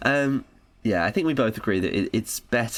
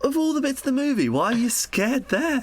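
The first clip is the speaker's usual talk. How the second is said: laughing disbelief. Real, not acted. Telling her friend about the annoying kid, high laughing disbelief. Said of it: "laughing incredulity".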